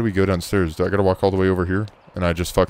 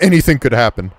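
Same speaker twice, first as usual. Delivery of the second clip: indignant echo; 3 semitones higher, 5 dB louder than usual. Pretend. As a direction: throw the warning back at the officer. Echoes the officer's words back indignantly.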